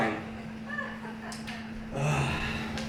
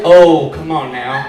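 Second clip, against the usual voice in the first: mock exasperation; 3 semitones lower, 8 dB louder, slower than usual. Shown as a demonstration. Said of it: "You can say it for any situation".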